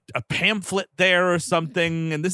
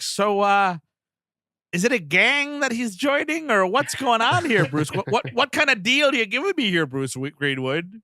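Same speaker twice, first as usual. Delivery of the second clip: higher, fussy questioning; mock worried parent; 5 semitones higher than usual. Parents questioning Bruce Greenwood, higher mock worry. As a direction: pester him like a confused dad. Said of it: "The parents are just like".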